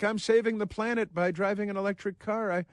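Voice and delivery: high, mocking voice of a smug liberal driver; put-on high voice sneering at a Tesla-driving liberal; mocking liberal woman. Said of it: "She's like".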